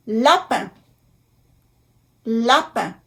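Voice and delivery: "Lapin" in French, nasal final "pin"; careful French pronunciation. Shown as a demonstration. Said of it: "I N".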